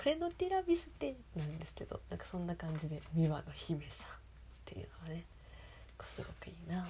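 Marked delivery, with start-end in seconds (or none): 0.0-1.1 俺のティラミス lifted much higher, sung out seductively; sexy voice. Shown as a demonstration. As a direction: say 俺のティラミス high and alluring, falling at the end. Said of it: "エロく聞こえるんですよ".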